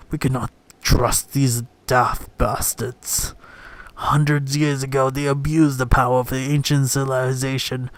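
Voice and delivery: hammed-up British distrust; put-on British accent, leaning on the insults; imitated British accent. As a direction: play a resentful British old-guard adviser. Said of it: "I'm imitating, uh, more or less".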